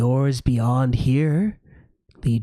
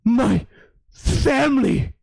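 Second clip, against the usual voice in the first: sad dog voice; 11 semitones higher, 4 dB louder than usual. Acted. GM voices the lost hound.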